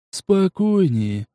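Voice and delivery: calming. Acted. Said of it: "успокаивая бойца".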